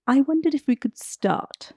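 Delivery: soft breathy whispered question. Real, not acted. Host whispers a question to her guest. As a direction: lean in and whisper it.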